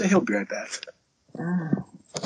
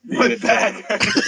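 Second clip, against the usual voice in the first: put-on much higher, slow old-man whine; mock old man; 12 semitones higher, much slower than usual. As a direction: groan it out like a creaky grandpa. Joking about getting old.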